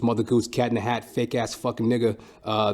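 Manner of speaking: ordinary delivery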